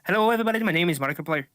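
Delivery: Irish accent attempt drifting Scottish; half-hearted Irish accent that sounds Scottish. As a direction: try an Irish accent, land near Scottish. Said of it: "Sounded more Scottish".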